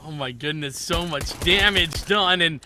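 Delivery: loud bursts with stretched key words; excited play-by-play. Real, not acted. Caster calling the round start, excited play-by-play. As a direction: hype up the opening damage.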